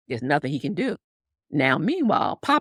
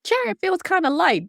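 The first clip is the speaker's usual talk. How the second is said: much higher, puzzled wondering; suspicious horses; 13 semitones higher than usual. Retold or imitated. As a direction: notice something's off, pitched up. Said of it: "horses were like".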